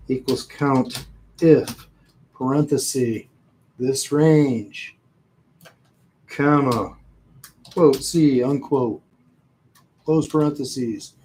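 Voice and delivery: reading a formula out piece by piece; dictating. Shown as a demonstration. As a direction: call out each part while typing. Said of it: "And then I can say".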